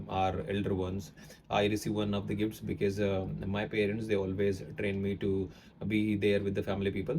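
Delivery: Indian English flowing on without stress or pauses; Indian accent demo. Shown as a demonstration. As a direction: run it together in an Indian accent, no emphasis. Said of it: "I would say like this".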